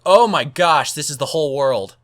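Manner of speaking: wide-eyed gasp of awe; overwhelmed by the size; amazed. Retold or imitated. Amazed inside JC Penney's.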